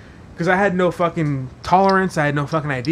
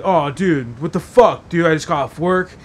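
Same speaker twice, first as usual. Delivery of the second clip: half-hearted angry complaint; mild pissed-off rant. Retold or imitated. Cousin griping about his beer, mildly angry. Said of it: "he was pissed off".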